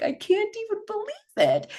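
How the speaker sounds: high, squeaky gasp of disbelief; can't believe what she sees on the schedule. Retold or imitated. Fitness presenter spotting an old format online, squealing in disbelief. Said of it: "I'm like".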